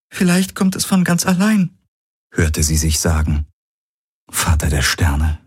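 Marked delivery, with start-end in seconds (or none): 0.1-1.8 lightly voiced heroine, sorrowful; Ki's voice, sad. A narrator's reading.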